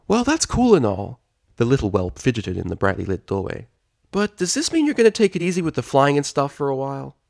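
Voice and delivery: put-on high, boyish little dragon; Spike voice. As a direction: voice a cheeky young dragon.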